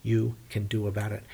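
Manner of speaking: loud gloating that fades as it goes; bragging shout. Acted. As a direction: rub it in, loud and cocky. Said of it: "Odysseus was bragging".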